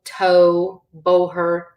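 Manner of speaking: "toe, boher" with a full long oh; long O sound. Shown as a demonstration. Teacher's examples of O with fada, long oh. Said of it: "with the fada".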